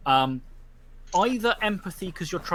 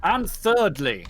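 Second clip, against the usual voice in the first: solemn judge's verdict. Acted. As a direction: pronounce judgement on the pack. Judge threatens outlaw status.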